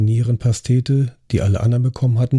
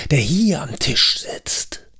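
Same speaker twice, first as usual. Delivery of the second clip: slow unvoiced whisper; ominous whisper; 4 semitones higher, slower than usual. Host revealing the killer sits at the table, whispered. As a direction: let it fall to a breathy secret.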